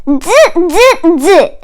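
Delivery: 1 monkey chatter. Acted. Monkeys mock the peddler.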